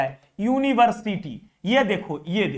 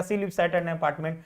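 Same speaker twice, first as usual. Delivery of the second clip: softer, slow option read-out; slow reading aloud; 5 semitones lower, 7 dB quieter, much slower than usual. Shown as a demonstration. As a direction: read the wrong option slowly. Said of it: "ये तो ऐसा ही गलत हो गया". (विकल्प को धीमे और धीरे पढ़ना)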